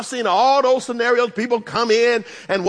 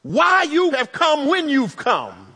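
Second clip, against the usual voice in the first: Martha's hopeful heart; 3 semitones higher than usual. Acted. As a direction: voice a sister clinging to hope. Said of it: "something in her heart that tells her".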